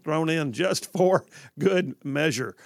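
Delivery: lively host rolling back into the show; radio show intro. Acted. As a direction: announce the station and coverage area. Host reopens show after break.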